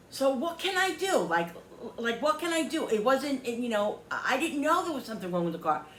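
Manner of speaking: pleading seller, imitated. Woman mimics seller pleading he didn't know, mock helpless. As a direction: mimic his defensive pleading.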